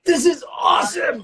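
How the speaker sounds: a sudden burst of real excitement; excited shout. Real, not acted. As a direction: shout it out with delight. Excited outburst while baking.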